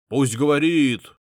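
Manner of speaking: slow, loud insistence; loud demand. A narrator's reading. Mustached man demanding the patriarch be heard. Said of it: "потребовал смуглый мужик".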